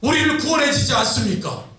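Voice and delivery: acted, insistent complaint pouring out; indignant protest. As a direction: protest to God as an aggrieved Gideon. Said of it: "기도원이 하나님의 사자에게 막 항변합니다". (따져 묻듯 항변하는 연기)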